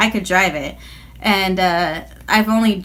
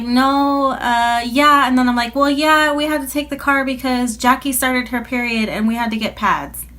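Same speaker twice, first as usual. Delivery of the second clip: nervous lie; 5 semitones higher than usual. Retold or imitated.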